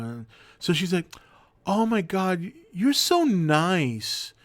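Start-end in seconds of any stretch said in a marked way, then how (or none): 1.7-4.3 put-on higher, slow, drawn-out gushing girl voice; lightly voiced tipsy passenger swooning; imitating drunk woman.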